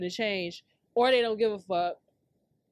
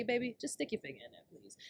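soft pleading; 9 dB quieter than usual. Retold or imitated. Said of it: "just relax and say".

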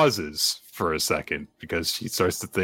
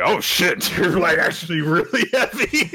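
higher, laughing complaint; laughing strain; 8 semitones higher, 3 dB louder than usual. Acted. Denji holding Asa, laughing that she's heavy. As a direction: grunt it out through a laugh. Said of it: "immediately is like".

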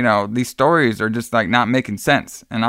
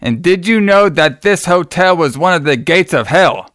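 excited mock accusation; 6 semitones higher, 4 dB louder than usual. Retelling a movie scene to a cohost, hammed-up accusing voice. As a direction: ham up the gotcha question. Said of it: "She's like".

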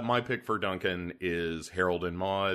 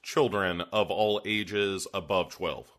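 ringmaster. Pretend. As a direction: call it out like a ringmaster. Ringmaster-style show opening.

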